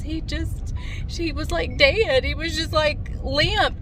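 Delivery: high-pitched retelling of a distraught daughter; imitated sobbing. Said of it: "she's sobbing. She says".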